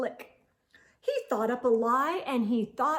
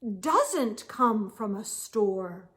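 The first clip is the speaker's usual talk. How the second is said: slow thoughtful musing; 4 semitones lower, slower than usual. Acted. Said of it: "he thought".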